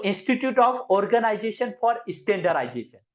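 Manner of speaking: "Institute of Organization for Standardization" drawn out slowly; slow dictation. Shown as a demonstration. Teacher dictating the acronym slowly to students. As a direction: dictate every word slowly. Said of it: "आई का full form हमेशा मैं बोलता हूँ".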